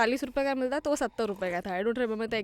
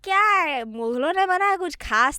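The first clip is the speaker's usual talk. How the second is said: dismissive; 5 dB louder than usual. Retold or imitated. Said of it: "उसका असली चेहरा सामने आया".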